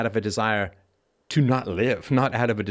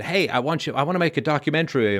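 higher-pitched eager pitch; imitated eager requesters; 4 semitones higher than usual. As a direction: lightly mimic someone pitching a project. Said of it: "People have said".

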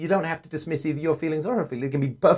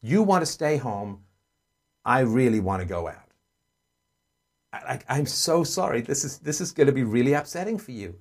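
sympathetic, validating. Shown as a demonstration. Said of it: "then you say".

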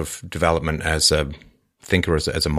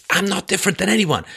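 frantic; 12 semitones higher than usual. Acted. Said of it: "He put in almost frantically".

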